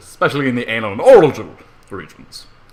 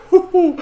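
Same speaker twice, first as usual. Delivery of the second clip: gleeful hoo-hoo laugh; 5 dB louder than usual. Acted. Gloating laugh at captives.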